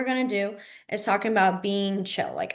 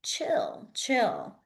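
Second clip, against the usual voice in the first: telling someone to chill; 2 semitones higher, 4 dB quieter than usual. Retold or imitated. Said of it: "they're more of saying".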